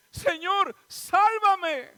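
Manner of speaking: grito alto y fuerte de auxilio; a voces. Acted. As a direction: clama a voces pidiendo que lo salven. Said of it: "entonces dio voces diciendo". (a gritos, suplicando)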